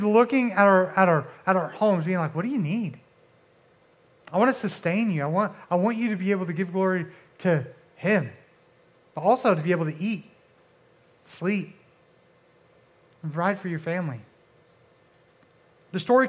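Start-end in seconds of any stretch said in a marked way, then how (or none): 2.3-14.2 gentle voice of God. Acted.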